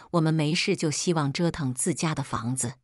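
自家 leaned on with extra weight; stress on 自家. A narrator's reading. Mother pointedly reminding the mother-in-law whose house it is, stress on 自家. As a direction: lean hard on 自家, the rest even. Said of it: "她在“自家”两个字上落了重音".

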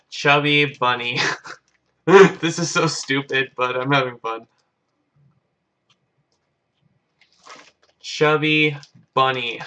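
words mushed by a mouthful of marshmallows; mouth full. Real, not acted. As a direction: talk through a mouth stuffed fuller and fuller. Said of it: "I gotta see how many marshmallows I can stick in my mouth".

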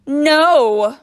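huge high scream of refusal. A narrator's reading. Teacher to escaping pupils, screaming. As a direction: scream it long and hard. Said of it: "screamed Missus Gorf".

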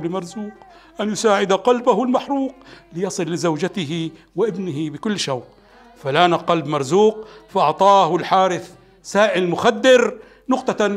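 hakawati storyteller's call to the audience; arabic cafe storyteller. A narrator's reading. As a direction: tell it like a café storyteller addressing the crowd. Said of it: "قال الراوي". (بصوت الحكواتي في المقهى)

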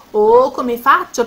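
drawn-out "oh", at a loss; worried wondering. Acted. Luce wonders how to wake her sleeping friend, worried.

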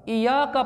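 इय्याका with single y; wrong pronunciation. Shown as a demonstration. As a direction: say इय्याका as i-yaa-ka, no shadda. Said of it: "पढ़ना बिल्कुल गलत है". (इय्याका, बिना शद)

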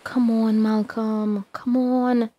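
loud urgent call into the dark. Acted. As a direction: shout for him to come out. Calling out in the night.

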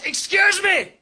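high, loud Northern Irish shriek, slow on the question; a leprechaun crossed with a rape alarm, Northern Irish; Northern Irish heckler. Retold or imitated. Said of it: "cross between a leprechaun and a rape alarm".

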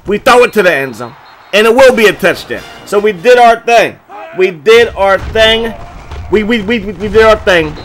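triumphant hype; excited celebration. Real, not acted. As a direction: celebrate the score out loud. Touchdown celebration.

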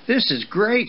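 high, excited colt's voice; thrilled at what's just turned up; delighted young colt. Acted. Young horse delighting in a new friend, high and excited.

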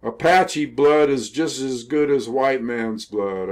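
restrained imitation of a defiant yell; retold yell. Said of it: "he looked down and yelled".

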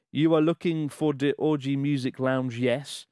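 lightly attempted African accent, measured; a hint of an African accent. Host voicing the wizard's question, light African accent. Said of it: "the man says in a thick African accent".

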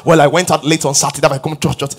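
low, soft, hurried excuse; mock excuse. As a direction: quietly imitate a sheepish churchgoer. Acts out a churchgoer's excuse.

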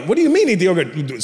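imitated son, baffled by dad; puzzled childish protest, without dad's accent; questioning child. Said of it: "My dad goes".

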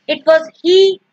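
"he" punched at the end; stress on he. Shown as a demonstration. Teacher giving an example of emphasis, stress on "he". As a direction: land firmly on "he". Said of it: "specifically laying emphasis on this".

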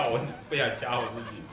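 soft words with suppressed laughter; holding back a giggle; stifled giggles. Real, not acted. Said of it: "我就是忍住笑".

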